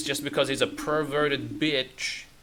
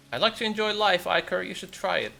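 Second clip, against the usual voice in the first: high, louder put-on retort; breezy game character; 7 semitones higher, 4 dB louder than usual. Nicholas urging Iker to enjoy life, breezy put-on voice. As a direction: toss it back in a raised voice.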